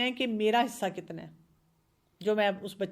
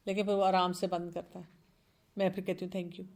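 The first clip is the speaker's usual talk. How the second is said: ordinary talk, nothing marked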